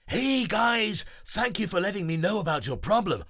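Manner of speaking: high, loud, fast cheerful voice; smiling hero. Acted. Breezy greeting the friends, smiling. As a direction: greet with a smile. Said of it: "says with a smile".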